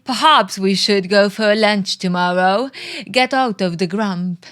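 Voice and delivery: put-on a shaky, half-hearted English accent; British accent. Bridget cheers up Mark on the bus, badly faked British accent. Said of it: "I don't know what I'm doing with this accent".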